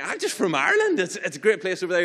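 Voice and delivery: high, quick, nervous babble; mock terrified. Terrified driver telling trooper where he's from, high nervous babble. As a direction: blurt it high and hurried, playing scared for laughs. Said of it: "I'm literally sitting there terrified".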